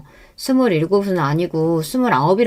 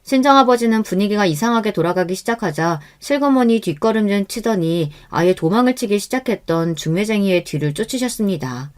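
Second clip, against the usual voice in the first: ordinary delivery, nothing marked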